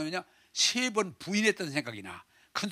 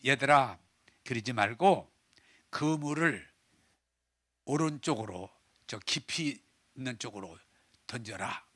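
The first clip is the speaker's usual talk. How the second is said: gentle call; 4 semitones lower than usual. Acted. Jesus gently calling to tired fishermen.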